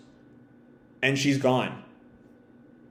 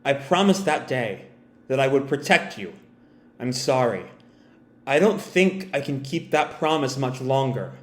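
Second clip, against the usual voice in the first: understated, lowered, sorrowful goodbye; sad smile; 2 semitones lower, 4 dB quieter than usual. Acted. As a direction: apologise softly through a sad smile. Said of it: "this sad little smile".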